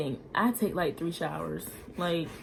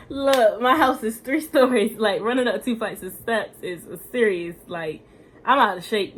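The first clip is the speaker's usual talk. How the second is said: out of breath; 3 semitones higher, 8 dB louder than usual. Real, not acted. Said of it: "I'm out of breath right now".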